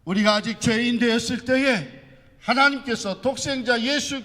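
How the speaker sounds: high, loud impassioned preaching; loud pulpit proclamation, pitched high throughout; preaching at full force. Real, not acted. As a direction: belt out the scripture with full conviction.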